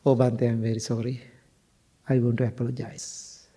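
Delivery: low, soft retold apology; retold tearful apology. Crying woman apologizing to the monk, subdued. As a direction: lightly imitate a woman apologizing after crying. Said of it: "she wiped her eyes and she was looking at me and said".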